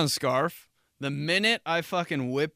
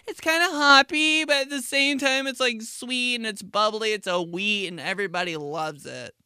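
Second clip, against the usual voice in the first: gushing beer explainer; 7 semitones higher than usual. Acted. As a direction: explain the beer in a put-on high voice. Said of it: "They start to explain".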